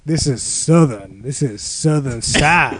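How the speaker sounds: bad Southern accent, lightly voiced. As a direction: drawl it like a Southern promo. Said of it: "his Southern accent".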